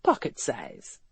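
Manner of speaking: low, understated tease; low male voice, lightly teasing; teasing aside. A narrator's reading. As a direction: drop it in low as an afterthought. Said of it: "as he added".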